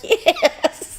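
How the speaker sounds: high loud yes; narrator's eager answer; emphatic yes. Retold or imitated. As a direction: snap a bright yes.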